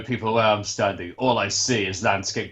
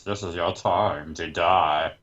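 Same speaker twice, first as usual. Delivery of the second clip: ominous pilot voice; 4 semitones lower, slower than usual. Pretend. Mock ominous pilot announcement.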